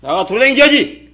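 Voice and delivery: loud, slow, high exhortation; real scolding. Real, not acted. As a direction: urge them out with a drawn-out shout. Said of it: "그래서 지금 호통치는 거예요".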